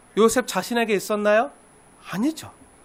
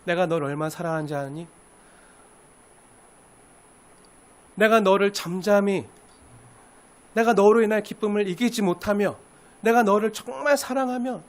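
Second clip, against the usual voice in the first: God speaking tenderly; 4 dB quieter than usual. Acted. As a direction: tell them gently how loved they are. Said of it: "하나님은 말씀하시는 거예요". (부드럽고 조용한 하나님의 음성)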